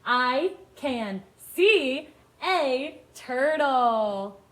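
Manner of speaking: very slow, separated words; each word stretched with a gap after; word-by-word reading. Shown as a demonstration. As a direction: read it out slowly for beginners to follow. Modelling reading for young children.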